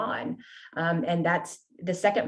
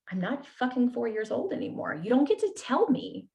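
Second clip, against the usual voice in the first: higher-pitched, indignant self-assertion; defiant retort; 5 semitones higher than usual. Retold or imitated. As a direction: push back defiantly, pitch jumping up on the last burst. Defiant reply to childhood rule.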